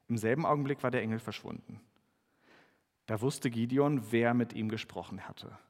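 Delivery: measured Bible reading with lightly acted voices; scripture reading. Pastor reads Gideon's story aloud to the congregation, measured reading. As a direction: read the passage to the congregation.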